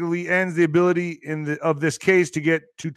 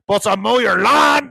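mock shout; 4 semitones higher, 4 dB louder than usual. Mock migrant shouting offer.

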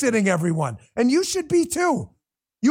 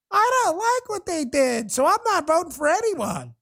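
mock whiny lawmaker; 4 semitones higher than usual. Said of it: "we tolerate it in Congress".

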